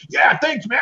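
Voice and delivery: high, cried-out thanks from a battered guard; grateful guard. Acted. The guard thanks the player in battle, high cry. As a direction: blurt the thanks mid-fight. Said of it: "looks up and he goes".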